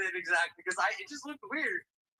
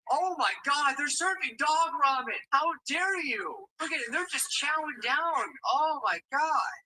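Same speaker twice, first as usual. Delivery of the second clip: slow, appalled outcry; horrified; 5 semitones higher, 3 dB louder, slower than usual. Real, not acted. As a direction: scold them in disgust. Horrified at dog ramen.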